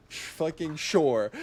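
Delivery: very slow, drawn-out grudging yes; sarcastic agreement. Retold or imitated. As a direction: drag it out with sarcasm. Sarcastic resignation.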